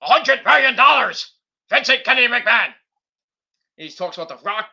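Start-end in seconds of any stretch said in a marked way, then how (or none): 0.0-2.7 higher, louder, pompous, fast on the name; mock proud boast. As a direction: boast his own full name. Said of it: "And he's like".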